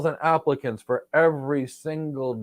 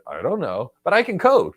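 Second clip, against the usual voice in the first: mocking candidate; 4 semitones higher, 4 dB louder than usual. Mocking a clueless job candidate.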